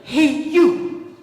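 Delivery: loud, high, singsong morning greeting; over-the-top chirpy pep talk; booming cheer. Retold or imitated. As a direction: belt out a peppy wake-up greeting. Imitating husband's morning greeting.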